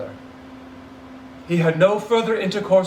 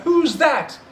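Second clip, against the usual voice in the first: timid; 6 semitones higher than usual. Acted. Scrooge timidly at the door.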